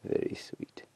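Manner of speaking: whispering. Real, not acted. Guide whispering near feeding leopard.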